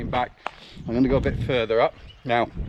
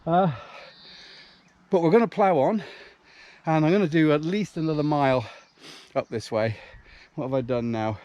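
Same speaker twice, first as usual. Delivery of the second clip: out of breath mid-run; puffing and panting while running; while jogging; 4 dB quieter than usual. Real, not acted. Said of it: "as you can hear, I am puffing and panting a bit".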